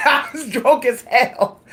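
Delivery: words through laughter; laughing. Real, not acted. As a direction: laugh while telling it. Laughing retelling.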